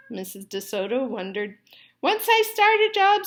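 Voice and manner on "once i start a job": firmly. A narrator's reading. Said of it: "said the dentist firmly".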